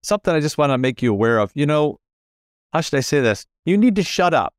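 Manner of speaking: a hint of a grinning boss; imitating the boss. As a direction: play the joking boss breaking it gently.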